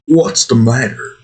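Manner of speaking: a hint of Australian in a put-on voice; attempted Australian accent. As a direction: imitate the burly Australian, loosely. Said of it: "kind of Australian, I think".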